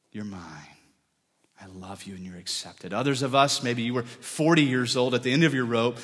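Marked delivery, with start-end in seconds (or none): 0.1-2.9 softer, tender reassurance; tender hush. Acted. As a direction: say it gently, almost under the breath. God's tender voice quoted.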